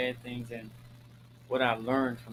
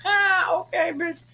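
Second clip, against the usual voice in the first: laughing; 10 dB louder, slower than usual. Real, not acted. Breaks off laughing mid-story.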